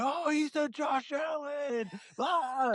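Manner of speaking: high, slow exclaiming voice; mock yelling coworkers. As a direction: gasp it out like the guys are scandalized. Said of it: "they're yelling at each other".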